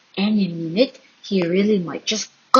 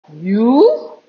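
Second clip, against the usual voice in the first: scornful surprise; 5 dB louder than usual. A narrator's reading. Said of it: "Goliath peered down at the small boy".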